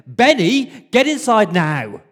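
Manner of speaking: put-on high, loud shout calling a child in. Mum calling her son in from outside, loud high shout. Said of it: "and she shouted".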